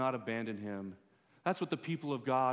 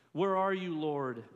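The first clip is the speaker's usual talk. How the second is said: anguished cry; 3 semitones higher, 6 dB louder than usual. Acted. Preacher voicing the psalmist's cry, loud plea.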